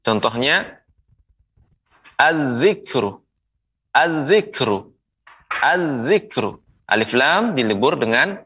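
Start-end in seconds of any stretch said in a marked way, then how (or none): 2.2-6.6 "az-zikru" with l silent and z held; merged article. Shown as a demonstration. Quran teacher models the letter zal, merged article. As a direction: lean on the double z in "az-zikru". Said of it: "melebur ke huruf zal".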